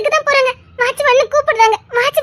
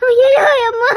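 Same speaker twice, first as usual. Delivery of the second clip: crying out in dread; tearful wail. Acted. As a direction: wail as if your child is missing. Distraught wail over missing girl.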